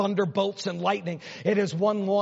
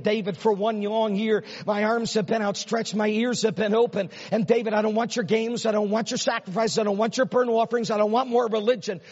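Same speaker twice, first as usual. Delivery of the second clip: voicing God; 3 semitones higher than usual. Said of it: "here's God saying".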